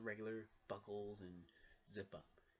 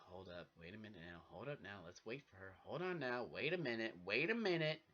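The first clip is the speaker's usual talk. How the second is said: rising protest; 4 dB louder than usual. Retold or imitated. Pleading as they're sent away.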